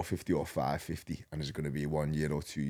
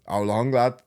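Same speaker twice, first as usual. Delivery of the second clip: teasing call-out; 7 semitones higher, 10 dB louder, slower than usual. Retold or imitated. Teammate calls out in changing room.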